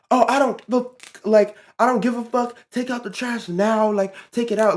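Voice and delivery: high-pitched imitation of a mean boss; overly mean. Coworker ordering the teen to take trash out, imitated mean command. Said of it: "just overly being mean".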